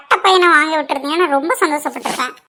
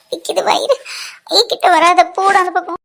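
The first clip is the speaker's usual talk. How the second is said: crying in pain; 2 semitones higher, 4 dB louder than usual. Acted. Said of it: "ஏன்டி இப்படி அழுகுற?".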